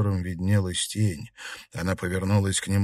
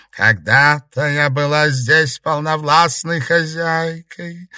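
rustling ghost voice; 7 semitones higher, 6 dB louder, slower than usual. A narrator's reading. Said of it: "прошелестел тихий голос".

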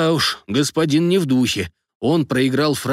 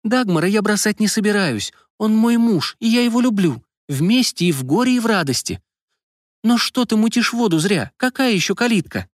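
heated; 9 semitones higher than usual. A narrator's reading. Wife defends husband, pitch high.

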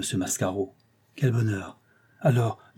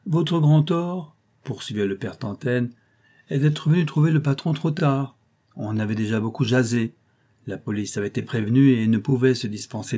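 lightly voiced old clerk, knowing and insinuating; hint at danger like a crafty old law clerk; sly old clerk; 3 semitones higher than usual. Old clerk warns the concierge of her enemies, lightly insinuating.

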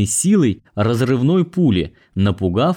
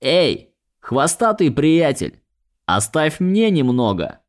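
pixie; 5 semitones higher than usual. Acted. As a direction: coax the cat like a fairy. Fey begs the cat.

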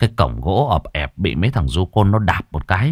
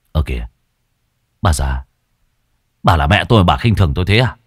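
wounded son; 5 semitones lower, faster than usual. Acted. Son feigns hurt to mother.

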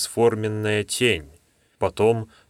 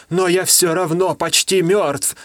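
groaning; 8 semitones higher, 4 dB louder than usual. Acted. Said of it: "прокряхтел Дождесвет".

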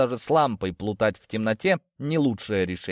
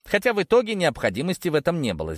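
plain reading voice

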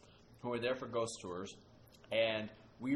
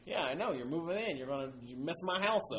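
put-on southern accent; 5 semitones higher than usual. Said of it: "nice little southern accent saying".

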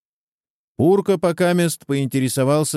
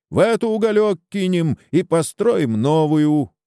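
higher-pitched, heated proposal; mild squeal; 7 semitones higher, 3 dB louder than usual. A narrator's reading. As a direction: pitch it up in restrained indignation. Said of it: "визжит дядя Мирка". (сдержанно визгливо, на повышенном тоне)

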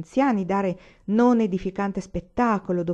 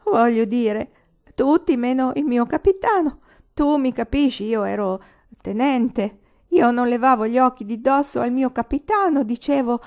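put-on drunk lieutenant; 6 semitones higher, 6 dB louder than usual.

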